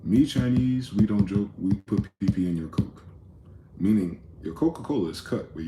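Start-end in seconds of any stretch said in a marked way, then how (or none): 0.0-3.0 hammed-up schoolyard joke voice; mocking childhood joke voice. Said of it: "but it went like this".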